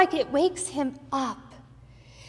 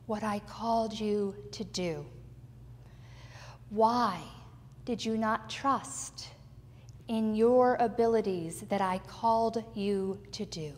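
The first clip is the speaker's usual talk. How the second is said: gentle encouragement; 6 dB quieter than usual. Acted. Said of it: "I think Jesus is saying to Peter".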